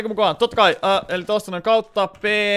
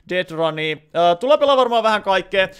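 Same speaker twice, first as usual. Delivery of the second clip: ordinary delivery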